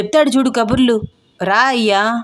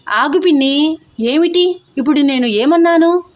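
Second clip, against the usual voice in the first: pleading shout; 5 semitones higher than usual. A narrator's reading. Venkat pleading with storming aunt.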